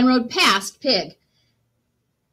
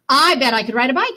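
eager duck; 4 semitones higher, 5 dB louder, faster than usual. Acted. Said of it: "he thought".

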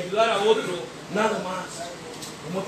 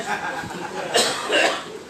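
short laugh; 4 semitones lower than usual. Real, not acted. Laugh with the group.

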